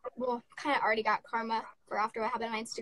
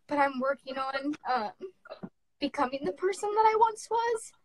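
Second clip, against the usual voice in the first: tearful; 2 semitones higher than usual. Real, not acted. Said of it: "without crying".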